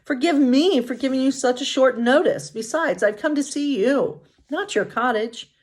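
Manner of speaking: gentle, sweet princess; Snow White. Acted.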